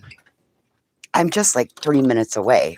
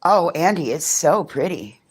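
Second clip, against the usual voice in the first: higher, slow adoring praise; higher coo to little Andy; high sweet praise; 5 semitones higher than usual. Real, not acted. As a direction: gush over it gently. Praising child.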